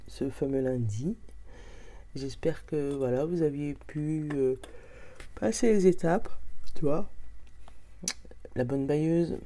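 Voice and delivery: rough morning voice with vocal fry. Real, not acted. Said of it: "vous allez me retrouver avec ma voix du matin".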